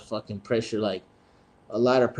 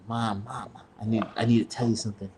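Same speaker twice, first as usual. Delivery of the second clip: hushed, rushed plea to mom; quick nervous mumble to his mother; nervous confession; 5 dB quieter than usual. Retold or imitated.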